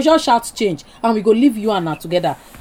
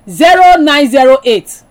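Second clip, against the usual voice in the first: slow, measured digit by digit; slow dictation; 4 dB louder, slower than usual. Real, not acted. Host giving caller a phone number, slow dictation. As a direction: read the number out slowly for note-taking.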